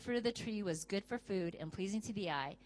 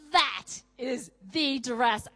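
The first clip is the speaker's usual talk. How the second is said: dreamy certainty; 6 dB louder, much slower than usual. Acted. Acting a shopper finding the dress.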